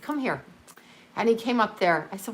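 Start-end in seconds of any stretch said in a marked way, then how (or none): 0.0-0.4 quiet urgent call. Retold or imitated.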